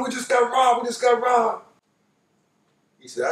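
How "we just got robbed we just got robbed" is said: higher, urgent cry to the cop; frantic call. Retold or imitated. Friends call out to the cop after the robbery, frantic. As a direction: call out desperately, as if just robbed. Calling out to police car.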